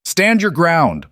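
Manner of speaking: high, loud, slow commanding scream. A narrator's reading. Pinned Marcus screaming orders at his fleeing men, loud. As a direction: bellow the order from the ground. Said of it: "Marcus screamed".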